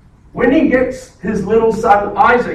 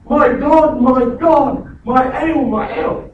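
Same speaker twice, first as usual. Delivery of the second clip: raised, louder cry to God; 4 semitones higher, 4 dB louder than usual. Retold or imitated. Preacher voicing Jesus calling out on the cross, raised. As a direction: call out high for help. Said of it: "He's yelling out for intervention".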